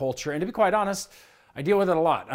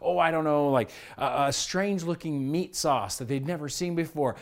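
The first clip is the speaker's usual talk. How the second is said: ordinary talk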